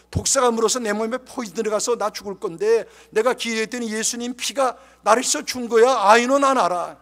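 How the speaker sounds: emphatic, building to a loud finish; retold boy's certain claim; child's insistent testimony. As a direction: declare it with growing conviction. Son insists he knows, building.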